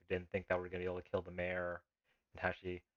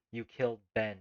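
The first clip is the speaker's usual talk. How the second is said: louder and higher on the second you killed Ben; screaming; 4 semitones higher, 8 dB louder than usual. A narrator's reading. Grieving knifeman screams at the hobo who shot Ben. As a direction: raise the voice into a cry the second time. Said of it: "he screams".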